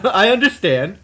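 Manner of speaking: high, loud laughing reply. Real, not acted. Embarrassed at the map mistake, laughing. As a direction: laugh through the admission.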